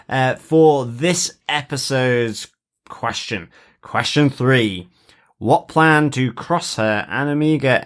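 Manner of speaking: lightly announced quiz question; quiz master. Acted. Host putting the episode's question to fellow quizzers, quiz master. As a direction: present it like a quiz host, measured.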